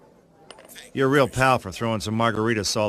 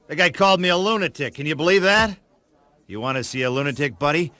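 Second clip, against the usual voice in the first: yelling back at the TV host who called him a lunatic; indignant outrage; 5 semitones higher than usual. Acted. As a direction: take the insult personally and fire back. Hero angrily yelling at TV.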